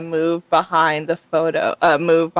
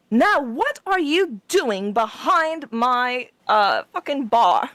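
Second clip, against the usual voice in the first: put-on slow, higher crotchety old woman; old elf woman; 4 semitones higher, slower than usual. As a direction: scold the intruder like an old barkeep. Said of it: "she's like".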